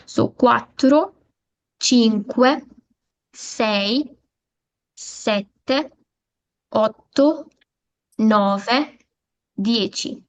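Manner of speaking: each number said slowly, rising at the end; Italian numbers modelled. Shown as a demonstration. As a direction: count each one out carefully for the class. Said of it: "दोबारा repeat करती हूँ".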